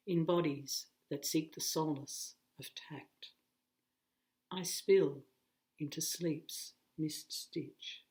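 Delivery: measured recital with spacious pauses between phrases; unhurried, lightly formal poetry voice; poem reading. A narrator's reading. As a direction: read the verse phrase by phrase, letting each line settle. Reads a poem aloud.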